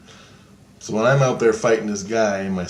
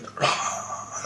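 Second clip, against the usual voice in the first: breathy, voiceless mock scream; soft rush of air as a failed scream; mimed strangled scream; 8 dB quieter than usual. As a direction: act out a scream with no voice. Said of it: "fucking screaming and yelling, but he can't".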